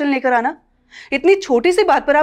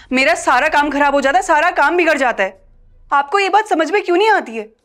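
climbing higher, exasperated and accusing; angry scolding; 5 semitones higher than usual. Acted. Daughter-in-law berates mother-in-law, exasperated and climbing. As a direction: berate her, building to the question.

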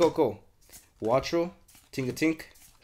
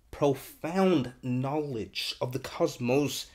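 mock grand reading; much slower than usual. Reading card text mock-grandly.

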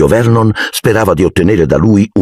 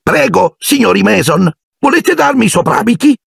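mock polite host. A narrator's reading. Dudley mimics a polite host.

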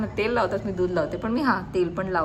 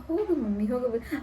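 mocking whiny brother; 5 semitones higher, 3 dB quieter than usual. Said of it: "त्याला काही पण बोललं का".

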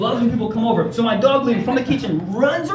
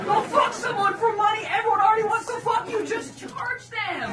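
exasperated rant; 9 semitones higher than usual. Retold or imitated. Ranting advice to hot friend.

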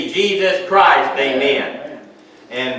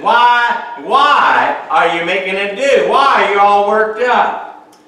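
insistent questioning; 3 semitones higher, slower than usual. Acted. Voices Jesus challenging the commotion.

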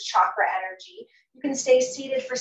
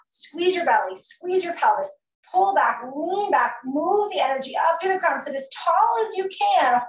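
strained, higher cues on held exhale; holding breath; 6 semitones higher, 3 dB louder than usual. Real, not acted. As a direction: talk while holding the breath out. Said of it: "Hold the exhale out".

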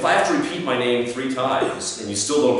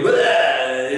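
mock blurted gibberish; 2 semitones higher, 5 dB louder than usual. Mimes blurting out a botched pitch.

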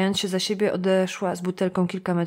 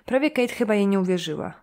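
plain reading voice

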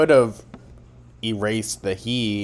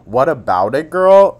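loud retort; 5 semitones higher, 10 dB louder than usual. Real, not acted. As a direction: fire it back at her, louder. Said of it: "retort to the quote".

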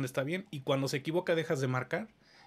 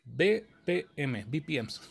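spelled out slowly; slower than usual. Shown as a demonstration.

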